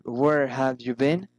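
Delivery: "been" swooping upward; rising intonation. Shown as a demonstration. Teacher shows friendly interest, rising intonation on "been". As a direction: raise "been" at the end, politely. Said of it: "raising in-, intonation".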